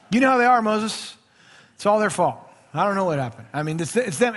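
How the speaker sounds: lightly voiced Aaron, defensive and excusing; Aaron shifting blame. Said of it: "He blames the people".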